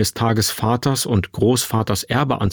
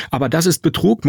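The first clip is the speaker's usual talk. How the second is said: higher-pitched, mildly shocked objection; dismayed protest; 6 semitones higher, faster than usual. Acted. Son objecting to mother's deceitful plan, dismayed.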